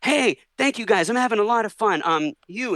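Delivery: high-pitched, grateful star impersonation; high imitation of a sweet celebrity; a singer. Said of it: "a singer says".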